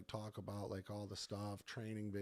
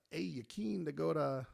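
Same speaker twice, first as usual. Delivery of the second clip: bad Australian accent; 4 semitones higher, 4 dB louder than usual. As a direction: badly imitate an Australian inviting a friend. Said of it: "that was the worst Australian accent".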